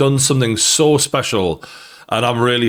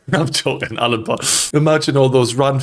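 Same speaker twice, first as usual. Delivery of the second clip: laughing. Real, not acted. Laughs at own Pardew joke.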